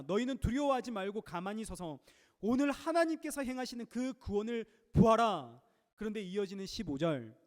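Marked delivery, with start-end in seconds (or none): 0.0-5.6 louder, rising bold cry to the people; bold proclamation. Retold or imitated. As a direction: proclaim it boldly like Moses before the crowd. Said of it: "담대히 외쳤습니다". (담대하게 외치듯이 선포)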